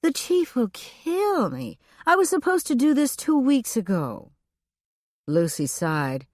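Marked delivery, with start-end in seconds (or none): 0.0-4.3 frantic. A narrator's reading. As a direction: sound close to panic, pitched high. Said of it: "Elfrida's voice took on a frantic tone".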